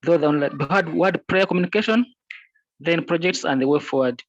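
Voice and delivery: conference call. Real, not acted. Remote member speaking over the call.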